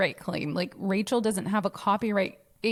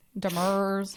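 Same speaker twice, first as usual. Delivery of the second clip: put-on Southern accent. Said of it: "I was saying it funny on purpose".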